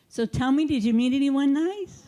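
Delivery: lightly voiced prying Jewish mother; a hint of a nosy mom asking after dates. Mild Jewish mother quizzing her son after the psych ward. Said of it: "play the Jewish mother".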